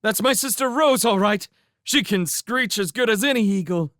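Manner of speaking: proud little brother bragging; proud and joyful. Acted. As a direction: cheer for your sister. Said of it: "clapped his hands joyously".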